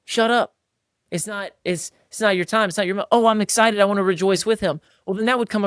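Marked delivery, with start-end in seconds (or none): 0.0-0.5 a bro stopping a one-upper mid-brag; cutting him off. Retold or imitated. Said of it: "We were like". 3.1-4.8 mock excited. Imitating the right response.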